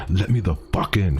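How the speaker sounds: lightly voiced imitation of the thing outside; weirdly toned creature voice. Narrator imitating the creature begging at the door, halting. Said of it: "halting, weirdly toned voice".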